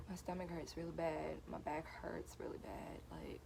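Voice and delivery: hushed. Real, not acted. Whispering in the back room.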